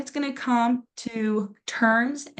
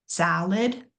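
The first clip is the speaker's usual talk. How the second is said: salad with the first A stressed, SA-lad; stressed first syllable. Shown as a demonstration. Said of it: "that first A is stressed".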